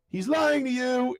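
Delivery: high, slow drawn-out quote; mock-urgent warning. Old man warning the boy about Cartman, mock urgency. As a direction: stretch it out as a cartoon accusation. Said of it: "And he's like".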